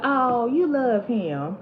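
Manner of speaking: slow, drawn-out knowing tease; knowing mock drawl. Mother-in-law to her son's crying wife, slow knowing drawl. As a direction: stretch it out like she sees right through her.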